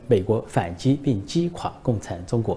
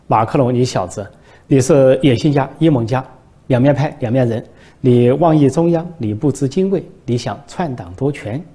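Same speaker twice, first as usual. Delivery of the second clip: mock fury, piling up the accusations; angry scolding; 2 semitones higher, 6 dB louder than usual. Xi scolds Macron for wanting the top post, mock angry. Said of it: "习近平生气了".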